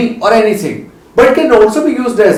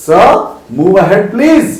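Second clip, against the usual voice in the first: polite request; 2 semitones higher, much slower than usual. Pretend. Person in a queue asking someone to move ahead. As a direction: ask politely but firmly to move. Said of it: "तो आप क्या बोलेंगे".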